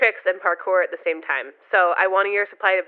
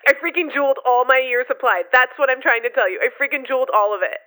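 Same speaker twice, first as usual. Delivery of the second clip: high, rattled and overwhelmed; frantic realization; 5 semitones higher than usual. Acted. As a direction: spiral into panic. Caller realizes she overdosed.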